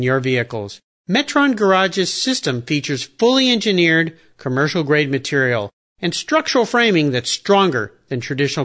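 upbeat sponsor read. Acted. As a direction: pitch it like a radio ad. Reads a sponsor ad.

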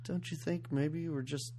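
soft, timid mock pleading; cowering wife. Host imitating the doormat wife cowering in the corner, timid. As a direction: imitate a meek, hesitant objection. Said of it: "just cowering in the corner going".

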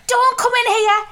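high, loud squeaky imitation of a panicking friend; mock panicked squeal. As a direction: squeal it like she's stuck in suds. Quoting friend's panicked plea.

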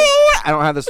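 mock baby voice. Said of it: "he's like".

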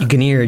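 "Guinea" said as guh-NEER, with a hard g; mispronounced genre. Shown as a demonstration. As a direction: say "Guinea" here to rhyme with near. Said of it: "pronouncing it Guineer".

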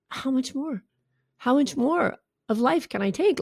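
acted despairing inner voice; overwhelmed. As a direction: ask it quietly, at the end of your rope. Voices thoughts of someone overwhelmed.

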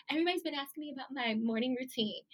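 mock Instagrammer. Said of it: "what all Instagrammers be like".

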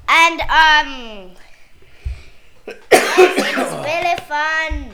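talking through a cough; coughing fit. Real, not acted. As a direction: cough mid-sentence, then push on. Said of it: "cough's still here".

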